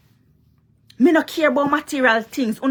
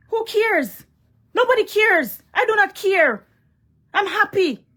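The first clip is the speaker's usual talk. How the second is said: much higher, airy who cares; dismissive scoff; 9 semitones higher than usual. Real, not acted. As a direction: toss his bragging aside. Brushing off his material boasts.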